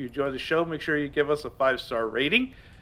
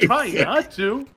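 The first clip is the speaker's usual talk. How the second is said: slow drawn out; 7 semitones higher, 3 dB louder, much slower than usual. Acted. Drawn-out repeat.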